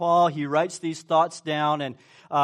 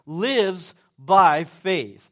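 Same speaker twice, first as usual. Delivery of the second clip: slowed emphasis; 6 dB louder, much slower than usual. Acted. Preacher slowing for emphasis.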